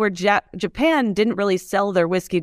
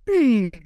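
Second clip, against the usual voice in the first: imitated phone beep; 4 semitones higher than usual. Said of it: "my phone just goes".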